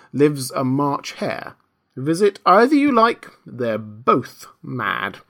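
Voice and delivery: lightly voiced, languid cat; snooty bored cat. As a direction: drawl it like an unbothered cat. The cat's voice.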